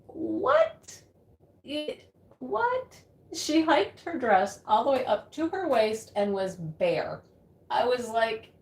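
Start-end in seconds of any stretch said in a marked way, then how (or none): 0.1-3.0 high, stunned what; shocked disbelief. Retold or imitated. Retelling her shock at the bare girl, high stunned what.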